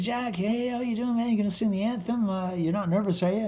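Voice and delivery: high, loud, fast excited greeting; Marty Short impression. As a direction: play Marty bursting with energy. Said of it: "Marty came up to me and goes".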